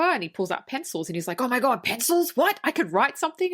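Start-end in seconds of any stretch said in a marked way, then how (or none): 1.4-3.5 higher-pitched, incredulous retelling; hammed-up delighted disbelief; mock amazement. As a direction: imitate someone astonished, pitch climbing. Retells old guy amazed by pencils.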